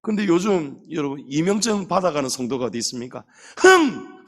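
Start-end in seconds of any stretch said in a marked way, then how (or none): 3.6-4.2 loud, high scornful huff; a snorted 흥 of contempt; mock huff. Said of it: "하고 그냥 가버린단". (높고 크게 코웃음 치는 흥)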